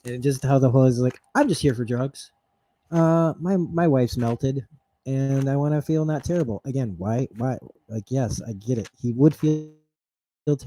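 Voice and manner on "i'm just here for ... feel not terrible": winded and breathless; panting out the words; out of breath. Retold or imitated. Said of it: "He's playing sweaty and out of breath".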